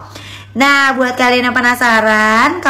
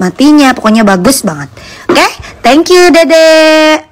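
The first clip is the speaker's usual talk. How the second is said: live sales pitch; 2 semitones lower, 6 dB louder than usual. Acted. Live selling product pitch.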